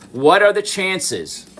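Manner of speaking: stunned by the lucky find; amazed. Real, not acted. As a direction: marvel at the coincidence, slow and high.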